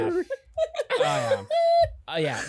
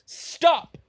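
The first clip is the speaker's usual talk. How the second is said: put-on high little-girl yell; little girl's cry; 12 semitones higher, 4 dB louder than usual. Podcaster voicing the one little girl in the crowd, high and small. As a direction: squeak out a tiny stop.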